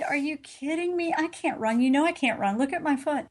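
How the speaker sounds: arguing back in disbelief, retold; incredulous protest. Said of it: "I had an argument with my guardian angel".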